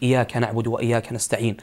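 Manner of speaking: "إياك" with a single, light y instead of a doubled one; unstressed shadda. Shown as a demonstration. Questioner shows sheikh a faulty Fatiha reading, "إياك" with undoubled y. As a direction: say "إياك" as iyaka, y left undoubled. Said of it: "فيقرأها بالتخفيف".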